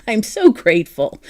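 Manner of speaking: playfully sarcastic gratitude, coming out of a laugh; laugh, then gush thanks with cheerful irony; joyful sarcasm. Real, not acted. Thanking a friend for challenging her, joyful sarcasm. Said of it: "I mean that with joyful sarcasm".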